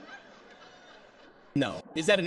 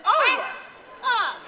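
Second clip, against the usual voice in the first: imitated shout; 13 semitones higher than usual. Comedian imitates the woman's tic, shouting. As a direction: burst out high, imitating her shouting. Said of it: "Which was kind of shouting she was doing too".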